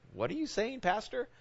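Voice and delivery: high, hushed disbelief; a stunned question to the pastor; incredulous. Retold or imitated. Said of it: "It's like".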